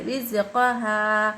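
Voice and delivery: slow chant without a pause; joined recitation. Shown as a demonstration. Teacher showing how to read on without stopping, joined recitation. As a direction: link the syllables, drawing out the last vowel. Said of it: "बिना रुके मिलाकर पढ़ना चाहिए".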